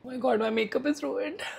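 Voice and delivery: talking through real tears; crying. Real, not acted. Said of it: "Can't stop crying".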